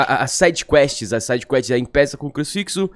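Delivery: ordinary talk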